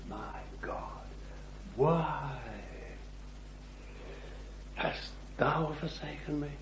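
Jesus crying out from the cross; cried out. Retold or imitated. Jesus crying out in the darkness, hushed and aching. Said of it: "in the darkness he cried out".

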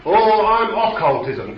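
hammed-up demon introducing itself; preacher voicing a demon naming itself; mock demon reply. Mocking demon answering its name.

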